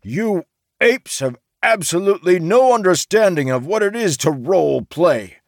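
high, loud, indignant outburst; vibrating with rage. A narrator's reading. Merchant scolds laughing players, outraged. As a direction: berate them at the top of your pitch. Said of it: "practically vibrated".

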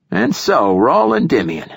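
high, ceremonial address; formal. A narrator's reading. Old poet formally addressing his chosen hero, formal. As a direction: address him with solemn formality. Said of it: "his voice formal once again".

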